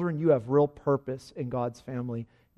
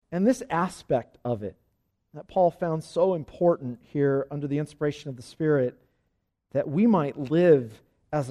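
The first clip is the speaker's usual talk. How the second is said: earnest, measured prayer in phrases; congregational prayer; 3 dB louder than usual. Real, not acted. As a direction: lead the congregation in prayer, leaning on key words. Leads closing prayer.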